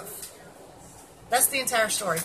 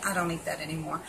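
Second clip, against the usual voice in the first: calm; 5 semitones lower, 4 dB quieter than usual. Shown as a demonstration. To people offering sugary food, calm and polite. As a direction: say it calmly and politely. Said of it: "just calmly say".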